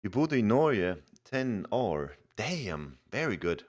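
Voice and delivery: put-on playful Norwegian accent, slowing on ten or damn; jokey stretched Norwegian accent; mock Norwegian accent. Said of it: "My accent is so crisp".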